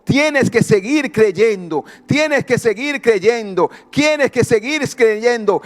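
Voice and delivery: slow, emphatic repeated command; insistent urging. Retold or imitated. Messenger urging the mother to keep believing, insistent. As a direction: press each phrase home, unhurried.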